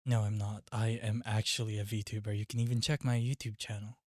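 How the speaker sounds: understated British character voice; British accent. Acted. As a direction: put on a polite British accent. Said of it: "we're putting on the British voice".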